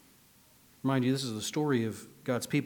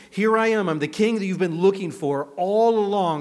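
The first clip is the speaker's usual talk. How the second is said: proclaiming king; 7 semitones higher, 10 dB louder than usual. Retold or imitated. Jesus presenting himself.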